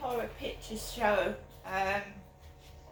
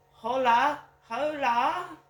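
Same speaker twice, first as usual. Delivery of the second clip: calling out; 4 semitones higher, 10 dB louder, slower than usual. Real, not acted. Calling out to the street.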